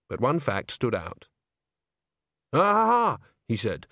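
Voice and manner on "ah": excited exclamation. Acted. Ghost exclaims in discovery.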